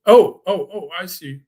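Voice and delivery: oh, catching his own mistake out loud; sudden realization. Real, not acted. Realizes he misread the question.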